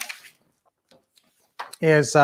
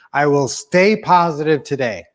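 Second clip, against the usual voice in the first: spoken affirmation. Shown as a demonstration. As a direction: lead the group, leaning on "stay". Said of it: "One, two, three".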